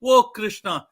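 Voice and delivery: loud, high anguished crying out; a boy wailing his hurt to the god; punished boy cries out to Krishna; sad plea to Krishna. Acted. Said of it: "Venkatanatha was so sad".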